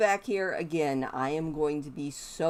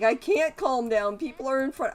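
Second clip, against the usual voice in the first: louder mock tantrum, pitched up; voicing the enraged Sim; 6 semitones higher, 5 dB louder than usual. Voicing her furious Sim refusing to calm down, mock loud. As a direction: play the sim's huffy outburst, half-joking. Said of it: "He's like".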